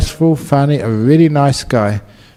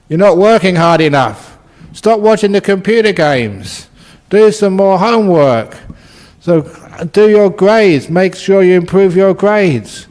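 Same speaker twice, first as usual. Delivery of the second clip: higher-pitched scolding, lightly acted; mock parental nagging; 5 semitones higher than usual. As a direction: rattle off demands like a complaining parent. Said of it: "other people complain about us".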